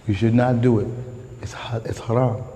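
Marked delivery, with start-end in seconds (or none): 1.4-2.4 unvoiced whisper; whispered aside. Preacher warning the congregation, in a whisper. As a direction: drop to a hushed whisper on haram.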